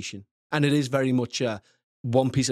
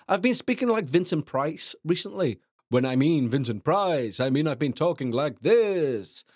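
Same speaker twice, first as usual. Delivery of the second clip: hint of a hammy vampire; comedy vampire voice. Shown as a demonstration. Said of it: "It's Comedy Vampire".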